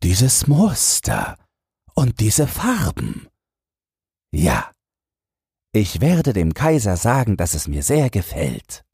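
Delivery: put-on an old official bluffing his approval; fussy old minister. Minister continues false praise.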